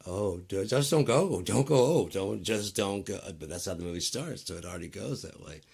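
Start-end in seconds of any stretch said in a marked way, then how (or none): 0.1-3.2 loud, high, desperate pleading; begging a character not to leave; pleading with the hero. Retold or imitated. Viewer yelling at the screen, begging him not to go. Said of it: "'cause you're like".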